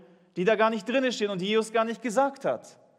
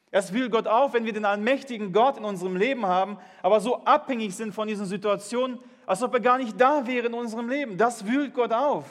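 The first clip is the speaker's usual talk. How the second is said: building up to a near shout; rising preaching fervor; 2 semitones higher than usual. Real, not acted. Pastor pressing the congregation about trusting God, building to a shout. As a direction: preach it with mounting force. Preacher drives home his point.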